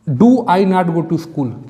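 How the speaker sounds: very slow, every word drawn out; slow dictation. Shown as a demonstration. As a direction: dictate the question to the class. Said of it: "teacher dictates question sentence slowly". (बहुत धीरे-धीरे लिखवाने वाले अंदाज़ में)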